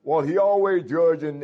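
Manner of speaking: imitating a complaining church member; mock complainer. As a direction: act out someone protesting unfair judgment. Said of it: "They're both saying".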